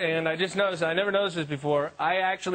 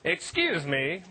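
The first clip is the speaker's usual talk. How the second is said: polite diner request. Retold or imitated. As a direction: ask with exaggerated courtesy. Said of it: "what you're really saying is".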